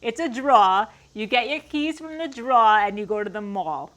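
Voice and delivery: emphatic Long Island "draw" and "mall"; punchy Long Island vowels, dropping the r; Long Island accent. Shown as a demonstration. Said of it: "saying it like that".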